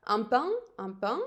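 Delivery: "pain" with the air through the nose, nasal vowel; teacher modelling the nasal vowel in "pain". Shown as a demonstration. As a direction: let "Un pain" resonate in the nose. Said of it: "I will feel the air in my nose".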